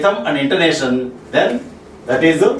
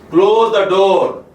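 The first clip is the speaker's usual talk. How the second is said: slow, with DOOR drawn out and pitched; polite request, slow, weight on DOOR; slower than usual. Shown as a demonstration. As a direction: lean the pitch onto the word DOOR. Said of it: "the pitch is on the door".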